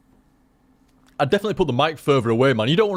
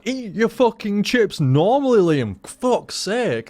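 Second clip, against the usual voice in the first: higher, slow, fed-up mate voice; exasperated mates; 7 semitones higher, slower than usual. Retold or imitated. Mates in McDonald's telling Liam off, exasperated and higher. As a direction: nag him like an annoyed friend. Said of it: "It used to drive me mates up the wall".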